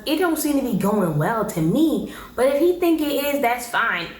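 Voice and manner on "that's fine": usual speaking voice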